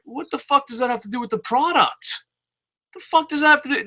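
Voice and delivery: retelling his own outraged reply; incredulous rant. Retold or imitated. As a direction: demand an answer, fed up. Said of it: "I'm like".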